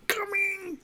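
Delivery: shout. Retold or imitated. Gamer yelling at the screen while wife sleeps, shouting. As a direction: bellow the name in delight. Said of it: "I just shout".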